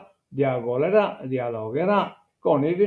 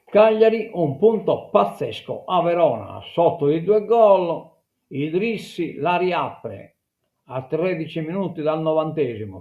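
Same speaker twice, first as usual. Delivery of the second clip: higher-pitched opening, easing down by the end; sports news read; 3 semitones higher than usual. Acted. Reads football report. (lettura di cronaca sportiva)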